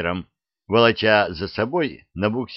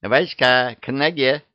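calling the cat; 5 semitones higher than usual. Acted. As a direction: summon the cat urgently. Witch calling her cat. (зовёт кота)

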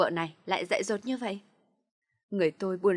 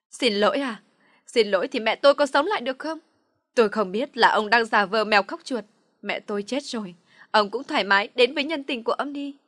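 scornful shout; 2 semitones higher, 8 dB louder than usual. A narrator's reading. Daughter mocking her father's apology, furious. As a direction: spit the words at him.

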